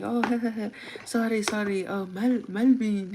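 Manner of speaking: imitating a good-natured apologetic chuckle; easygoing dad brushing off his mistake; laughing it off. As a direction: laugh lightly, then apologize. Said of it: "my dad just laughs it off".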